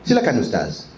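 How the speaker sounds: Silakan ustaz, ustaz ending in a crisp z; careful ustaz, final z sounded; clear ustaz. Shown as a demonstration. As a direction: interviewer greets the ustaz, z said clearly. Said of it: "Sebut ustaz bagi jelas".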